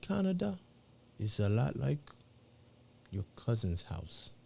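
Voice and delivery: put-on a light African accent, softly spoken; a hint of an African accent. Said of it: "he said it in his African voice".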